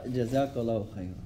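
soft, calm thanks; calm reply. Retold or imitated. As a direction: answer gently, unbothered. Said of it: "When he said it so calmly and peacefully".

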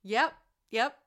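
put-on Australian accent. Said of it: "I don't know why I'm Australian".

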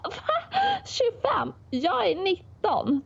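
high squeaky outrage at the guess; shocked disbelief. Retold or imitated. Young guy at dinner, told he looks twenty-five, shocked high squeal. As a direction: squeal it like you can't believe the insult.

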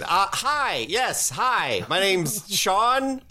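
awkward hook-handed hitchhiker introducing himself; goofy hitchhiker. Acted. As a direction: stammer it like a nervous oddball. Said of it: "the hitchhiker said".

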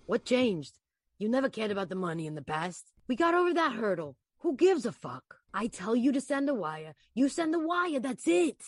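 calm controlling boss voice; Anthony, manipulative. Acted. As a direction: press her, cool and steady. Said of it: "do it again".

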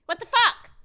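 high, loud burst of disbelief; exasperated outburst. Real, not acted. Indignant rant about double standards.

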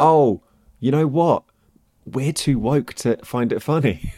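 slow, mocking put-on voice; sarcastic imitation of critics; mock woke voice. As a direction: parody the offended audience, slowly.

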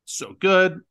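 talking through hiccups; a hiccup catching the words. Real, not acted. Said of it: "I have the hiccups".

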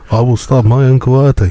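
slow, deliberate manager impression; lightly voiced Roy statement. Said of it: "He wants you to say".

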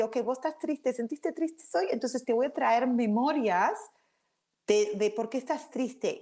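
a hint of a chatty inner helper; the brain talking. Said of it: "el cerebro ... te está ayudando a decir".

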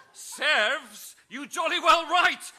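high, loud mock retort with a laugh; quipping. Amelia quipping back to Lord Guy, loud and high. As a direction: fling back the pun shouting. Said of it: "she quipped in response".

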